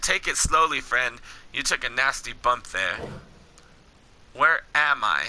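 low, measured game-dialogue read; story dialogue reading. Acted. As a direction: read the wasteland encounter steadily, below your chat pitch. Reads game dialogue aloud.

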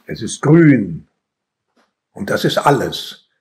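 measured poem reading with weighty pauses; solemnly paced verse reading; poetry recitation. Acted. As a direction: recite line by line, letting each land.

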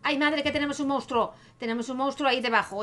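hammed-up childish alarm; child shouting in alarm. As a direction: cry out about a monster in pretend fright. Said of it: "Está gritando el niño".

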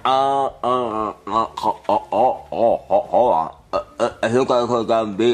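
slow groans with jaw stretched; mouth wide open. Pretend. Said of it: "you just beat him".

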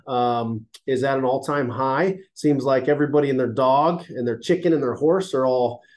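stuffy nose, nasal voice; congested. Real, not acted. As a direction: talk through a blocked nose. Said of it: "I'm a little congested and nasally".

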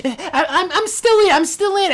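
high, loud mocking insistence; annoying kid imitation. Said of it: "he legit sounded like that".

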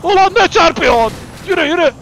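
high, loud protest; annoyed shout. Real, not acted. Gamer scolding a player who crashed into him, annoyed shout. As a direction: snap loudly at whoever rammed you. Gets rammed in game.

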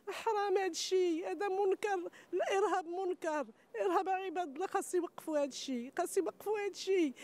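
tearful outrage; angry crying. Real, not acted. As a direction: condemn it while crying. Condemning terrorism through tears.

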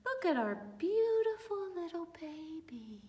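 high, loud welcoming voice; proud welcome. Acted. Mary and Joseph welcoming the shepherds, high and proud. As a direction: welcome them in beaming. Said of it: "Mary and Joseph said".

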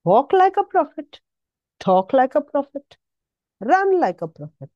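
rally the congregation; preacher lifting up the church; rousing exhortation. Acted. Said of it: "rousing exhortation".

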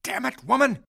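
snapping a correction, then swearing loud; angry outburst. Acted. Patient rages at the healer over his name, loud angry shout. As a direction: bark the name right, then curse her.

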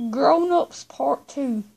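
slow, deliberate, each word apart; slow it right down so the phone gets it; talking slowly to a voice assistant; slow and clear for Siri. Real, not acted.

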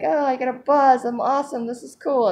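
hammed-up giddy thrill of the rush; sugar buzz high. Imitating her giddy self on a sugar rush, high and excited. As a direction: voice jumps high and bouncy on a mock sugar high. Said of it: "and you're like".

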